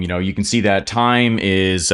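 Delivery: ordinary talk, nothing marked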